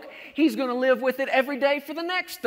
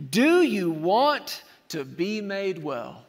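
slow emphatic question; much slower than usual. Shown as a demonstration. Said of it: "listen to this question".

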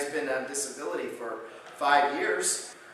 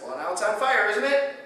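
triumphant; 8 semitones higher, 6 dB louder than usual. Retold or imitated. Doctor triumphant to patient.

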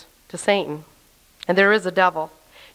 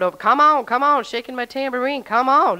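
playful, raised calling-out; pitched-up, eager street-corner invitation; rousing street evangelist; 3 semitones higher than usual. Pretend. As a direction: beckon a crowd with mock revival zeal.

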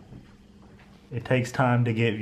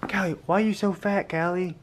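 high teasing pet voice; 6 semitones higher than usual. Pretend. Teasing cat in voice.

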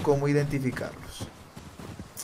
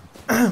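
throat clearing; 8 semitones higher, 5 dB louder than usual. Real, not acted. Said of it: "Perfecto, muchachos".

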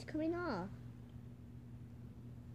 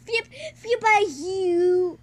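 laughing; 6 semitones higher, 9 dB louder, slower than usual. Real, not acted. Laughing while repeating phrase.

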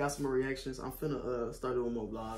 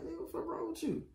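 retold confrontation. Confronting guy who approached.

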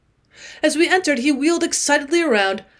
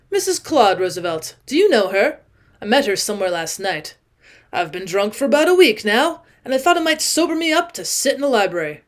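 put-on drunk owl-eyed man. Drunk man explains himself.

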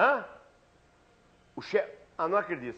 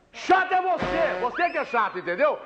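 fake phone row. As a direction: bark insults down the phone. Husband yelling on the phone.

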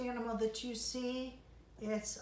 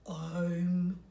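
very high, louder animal call; 10 semitones higher, 5 dB louder than usual. Acted. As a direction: pipe up high as a new animal. Another animal arrives.

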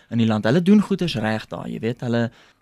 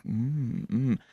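a rock musician; 8 dB quieter than usual. Retold or imitated. Rock star watching from the wings, quiet impressed humming. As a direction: imitate a quiet, considered "mm". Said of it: "he was like".

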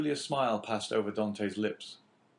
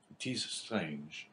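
soft, slow, smiling musing; a quiet, wry smile in the voice; 4 semitones lower, 6 dB quieter, much slower than usual. A narrator's reading. Dante alone on the rock, musing with a soft smile. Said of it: "he said with a smile".

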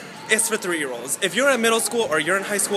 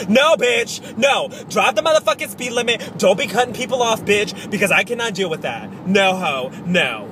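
scolding driver; 3 semitones higher, 5 dB louder than usual. Real, not acted.

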